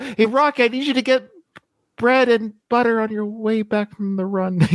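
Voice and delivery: high-pitched mock calling out; imagined yell. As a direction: call it high, as if to someone running off. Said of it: "she could have yelled".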